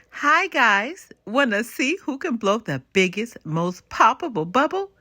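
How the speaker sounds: put-on a bright, high child's voice calling out; excited child. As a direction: invite the kids over, full of eagerness. Child calling friends to play.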